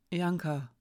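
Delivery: softly cautious asking; careful. Acted. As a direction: Hiraya gently probes Janka, carefully. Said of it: "fragte sie vorsichtig". (vorsichtig fragend)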